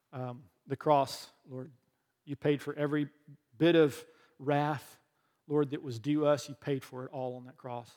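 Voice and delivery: earnest pastor's closing prayer; preacher praying for his church. Acted. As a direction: pray over the congregation, steady.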